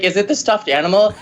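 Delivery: lightly voiced asking mom; mom's question. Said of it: "she's like".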